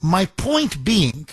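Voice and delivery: normal talking voice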